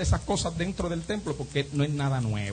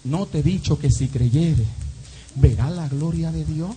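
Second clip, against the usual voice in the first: Jesus's measured question. Acted. Preacher quotes Jesus answering the dead man's sister, measured. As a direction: ask it gravely, word by word. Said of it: "Y Jesucristo le dice".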